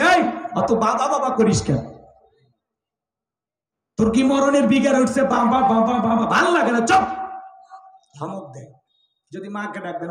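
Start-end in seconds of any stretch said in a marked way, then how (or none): 0.0-7.0 mild angry father. Retold or imitated. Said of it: "বাবা রাগান্বিত বলে".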